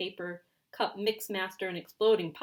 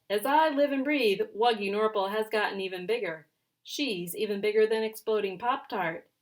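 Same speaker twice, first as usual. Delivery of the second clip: excited declaration; 4 semitones higher, 9 dB louder than usual. Acted. Louie proudly declares cat bigger.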